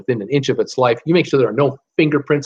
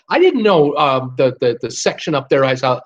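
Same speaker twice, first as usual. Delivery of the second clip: higher-pitched, lightly acted excuse-making manager; mock-innocent manager, pitched up; clueless hotel manager; 4 semitones higher than usual. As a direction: plead ignorance as a surprised hotel manager. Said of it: "The hotel manager has no idea what you're talking about".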